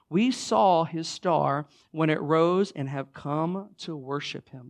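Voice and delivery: measured, emphatic Bible reading; scripture reading. Acted. Pastor reads the Christmas verse to the church, deliberate scripture reading. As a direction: read scripture aloud with deliberate phrasing.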